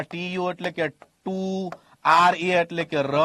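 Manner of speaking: slow spelling-out, ટુ and ર held long; spelling out syllables. Shown as a demonstration. Teacher sounding out school spelling, slow syllables. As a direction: stretch ટુ and ર as separate syllables. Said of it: "અંગ્રેજીમાં શું શીખવાડ્યું હોય?".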